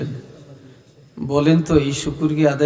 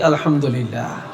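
laughing praise. Real, not acted. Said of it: "এই জন্য শুকর আদায় করি".

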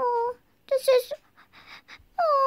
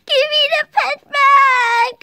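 pleading cry; 5 dB louder than usual. Pretend. Child begs for pet.

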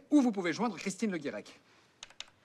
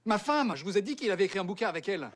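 exasperated; 5 semitones higher, 4 dB louder than usual. Acted. Exasperated at Pignon's forgetfulness.

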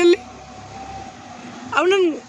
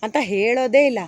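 easy, lower-pitched line reading; relaxed demo; 6 semitones lower than usual. Shown as a demonstration. Director shows child actor the line, relaxed. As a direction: say it at ease, pitched low. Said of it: "ಲೋ, ಆರಾಮ್ಸೆ ಹೇಳೋ".

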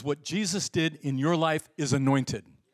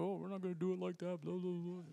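mock dismissive; 4 semitones higher, 12 dB quieter than usual. Mocking a self-righteous attitude.

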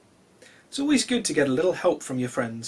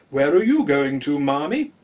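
calling out; 6 dB louder than usual. Acted. Heppenstall calls to his cat.

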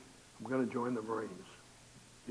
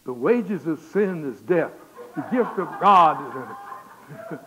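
slow, booming proclamation; thundering scripture; 13 dB louder, much slower than usual. Retold or imitated. Boy reading the warning hidden in his cigarettes, thundering. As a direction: thunder it out like a judgment. Reads warning note found in pack.

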